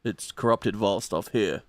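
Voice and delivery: very slow, low, quiet sinister villain; slow creepy villain murmur; evil villain voice. Acted. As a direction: savour every word like a dark sorcerer. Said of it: "And he's like".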